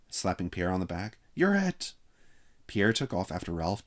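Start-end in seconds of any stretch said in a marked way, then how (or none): 1.3-1.9 high, loud gleeful cry; bellowing. A narrator's reading. Chip tagging Pierre, a high loud yell. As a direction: yell it as you slap his back. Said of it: "bellowed Chip".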